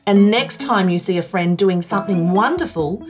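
bright sing-song presenter voice; broad singsong kids theatre. Acted. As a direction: talk to little kids on TV. Kids show host address.

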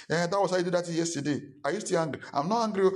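high, fast defensive retort; mock quarrel. Pastor mimicking an offended member, high and defensive. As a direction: voice a touchy church member snapping back.

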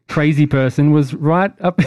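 laughing through the roast; laughing punchline. Real, not acted. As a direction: burst into laughter mid-burn.

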